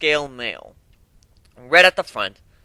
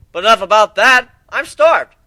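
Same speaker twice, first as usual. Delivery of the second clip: mock menace; 8 semitones higher, 9 dB louder than usual. Teasing joke to scared ponies.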